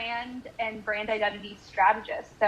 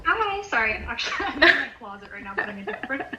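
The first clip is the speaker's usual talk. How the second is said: phone call; 4 dB louder, faster than usual. Real, not acted. Friend heard over a call.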